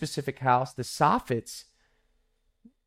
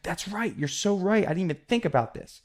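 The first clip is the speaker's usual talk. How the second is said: higher-pitched mild excitement; retold eager agreement, pitched up; delighted customer; 6 semitones higher than usual. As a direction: lightly imitate a customer won over and agreeing. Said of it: "she just loved it".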